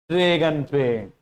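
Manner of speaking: ordinary talk, nothing marked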